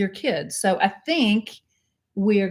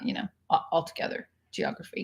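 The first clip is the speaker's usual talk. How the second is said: whispering; 4 semitones lower, 9 dB quieter, faster than usual. Real, not acted. Trailing off about geography.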